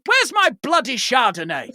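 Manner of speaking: laughing mock-posh demand; a lady of leisure snapping for wine; half-laughing spoiled guest; she demands. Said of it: "She's going".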